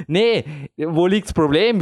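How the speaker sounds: lightly voiced coach, slow and unbothered; climbing coach. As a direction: shrug it off slowly like a climbing coach. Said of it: "würde jetzt ein Klettertrainer sagen".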